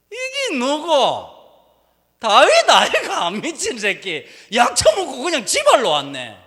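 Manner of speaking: loud, high, slow Gyeongsang drawl mocking David; Gyeongsang dialect. Philistine courtiers mocking David in loud, high Gyeongsang dialect. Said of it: "경상도식으로 하면".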